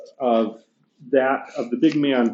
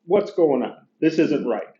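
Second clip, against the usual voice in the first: mild mock complaint, a little higher; lightly voiced aggrieved ghost; 7 semitones higher than usual. Teacher retelling the ghost's complaint to the class, lightly voiced. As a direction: paraphrase the ghost's grumbling lightly. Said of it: "he gets".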